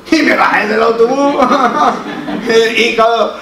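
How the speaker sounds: words breaking up with real laughter; laughing while talking. Real, not acted. Pastor retelling the truant son story, laughing through it. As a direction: laugh through the words, pitch jumping high.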